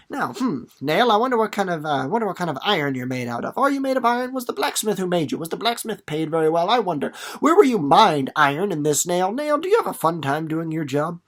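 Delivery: teacher joking that Miles quizzes the nail, hammed-up curiosity; mock nosy Miles. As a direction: play it up as a joke interview. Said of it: "He's not".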